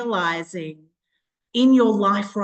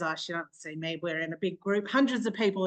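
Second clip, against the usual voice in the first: soft, dejected inner voice, much quieter; deflated murmur; 2 semitones lower, 6 dB quieter, faster than usual. Retold or imitated. A listener on a group call, murmuring, crestfallen. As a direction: sigh it to yourself, crestfallen. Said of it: "she goes".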